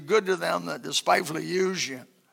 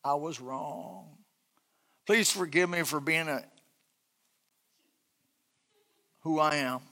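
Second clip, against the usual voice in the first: humble apology; 3 semitones lower, 8 dB quieter than usual. Pretend. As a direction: confess gently, humbly. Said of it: "that's hard to say".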